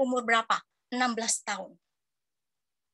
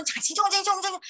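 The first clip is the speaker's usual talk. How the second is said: mock Mandarin babble; 6 semitones higher than usual. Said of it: "susahnya minta ampun".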